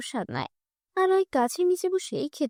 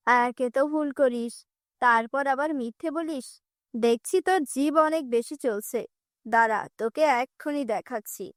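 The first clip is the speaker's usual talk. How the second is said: harsh stepmother. Acted. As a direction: threaten the girl coldly.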